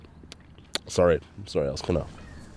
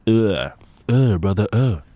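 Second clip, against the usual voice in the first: disgusted groan; 4 semitones higher, 8 dB louder, slower than usual. Retold or imitated. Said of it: "I'm gonna be like".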